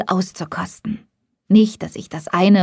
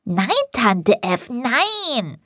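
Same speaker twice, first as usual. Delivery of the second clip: put-on slow, high child's voice, playful; a small boy giggling through his refusal; boy teasing back his aunt in a child's giggly voice; giggling little boy; 5 semitones higher, much slower than usual. A narrator's reading. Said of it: "Tommy kicherte".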